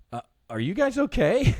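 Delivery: high-pitched, puzzled check-in; mock innocent concern. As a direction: ask it high, as if baffled by their worry. Acting out asking the onlookers.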